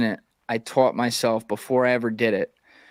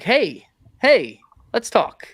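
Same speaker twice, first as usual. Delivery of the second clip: higher, pleading call to calm things down; a hint of an eager mediator; mock peacemaker; 10 semitones higher, 4 dB louder, slower than usual. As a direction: playfully break up the fight, pitched up. Peacemaker cutting into a quarrel.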